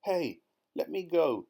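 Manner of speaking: high, loud squealing yell; crocodile yelling. Acted. Crocodile dangling upside down yells to be freed. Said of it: "yelled the enormous crocodile".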